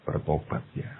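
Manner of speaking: ordinary delivery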